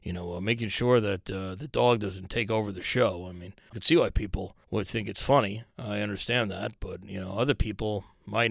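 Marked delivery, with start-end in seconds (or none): 0.0-3.3 lightly voiced boss scolding in an email; mock stern memo. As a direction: read it like a stiff office warning. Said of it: "he'd write an email".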